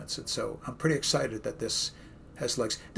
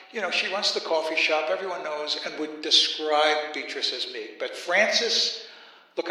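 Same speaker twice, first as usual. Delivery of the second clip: put-on a light Brooklyn accent as a chatty preacher; Jesus as a friendly Brooklyn guy working the crowd; easygoing Brooklyn accent addressing a hillside crowd. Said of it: "except in my tongue and in my accent".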